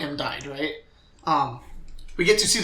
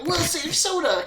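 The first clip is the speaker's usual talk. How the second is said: very high, slow mock-girlish cry; mock heroic girls; 13 semitones higher, slower than usual. Girls rallying to save Soda, mock high-pitched cry. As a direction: imitate a squad of girls calling out, drawn out.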